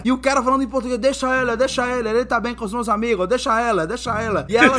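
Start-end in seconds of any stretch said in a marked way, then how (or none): 1.0-4.5 dismissive reassurance. Retold or imitated. Retold stranger brushing off the wife.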